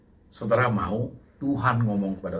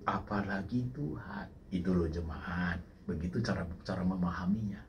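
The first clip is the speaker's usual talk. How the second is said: dropped to quiet; 4 semitones lower, 9 dB quieter than usual. Real, not acted. Preacher drops voice.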